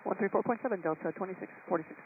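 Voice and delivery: high, thin radio-filtered voice; pilot over the radio. Real, not acted. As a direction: call in from the cockpit over radio.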